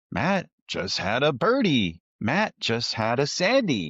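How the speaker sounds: mock app notification. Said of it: "I'm getting these notifications from Grint".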